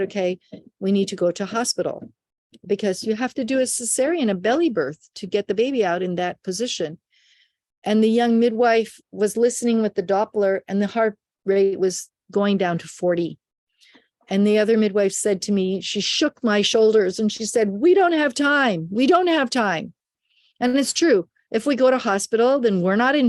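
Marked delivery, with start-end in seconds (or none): 0.0-2.1 composed, even and unhurried; very calm. Retold or imitated. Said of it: "and I very calmly said". 17.7-19.9 higher-pitched, insistent retold plea; urgent insistence. Midwife shakes her, urgent.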